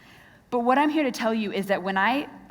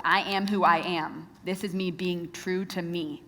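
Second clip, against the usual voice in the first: imitating self-assured defiance; 3 semitones lower, 3 dB quieter, slower than usual. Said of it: "doing everything she could do to show her individuality".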